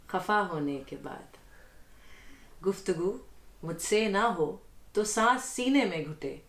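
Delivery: measured Urdu poetry reading; ghazal recitation. Acted. Guest reads the host's ghazal before him, poetic recitation. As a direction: recite the couplet with deliberate phrasing.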